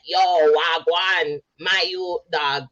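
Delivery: slow, mocking Toronto mans talk; Toronto slang imitation. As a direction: drag out the wagwan like a wannabe. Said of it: "this weird twisted Toronto version".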